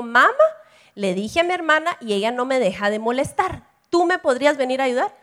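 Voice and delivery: a hint of a kid asking for help; child asking mom. Hija voiced pidiendo ayuda a mamá. (niña pidiéndole ayuda a mamá, con voz apenas cambiada)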